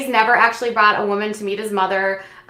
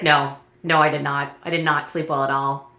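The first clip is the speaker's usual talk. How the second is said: whiny; 7 semitones lower, 4 dB quieter than usual. Retold or imitated. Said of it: "He is so whiny".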